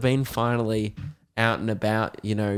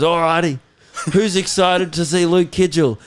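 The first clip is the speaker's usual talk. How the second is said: loud, high hype-man voice; hyped-up announcer; 4 semitones higher, 4 dB louder than usual. Retold or imitated. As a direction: pump up the crowd like an MC. Mate hyping up the crowd.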